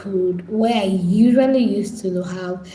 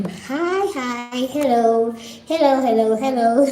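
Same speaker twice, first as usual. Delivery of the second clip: bright, high, louder greeting, bouncing up; excited hello; 5 semitones higher, 3 dB louder, slower than usual. Real, not acted. Greeting viewers who joined her live stream, high and excited. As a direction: greet new viewers with a big lift.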